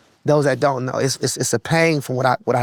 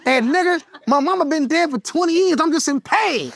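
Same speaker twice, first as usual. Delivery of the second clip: high, laughing mock-father rebuke; dad voice, laughing; 11 semitones higher than usual. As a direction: scold the son through laughter. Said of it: "He said".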